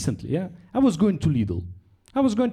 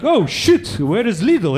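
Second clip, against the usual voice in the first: mock alarm; 3 semitones higher, 6 dB louder, much slower than usual. Imagined Zelensky hunting for Lidl, mock alarm. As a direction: blurt it out in mock urgency.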